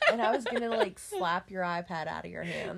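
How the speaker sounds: laughing through the words; giggling indignation. Real, not acted.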